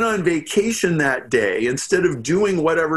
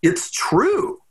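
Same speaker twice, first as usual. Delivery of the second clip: whispering; 5 semitones higher than usual. Real, not acted. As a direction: whisper it as a secret. Whispered aside to listener.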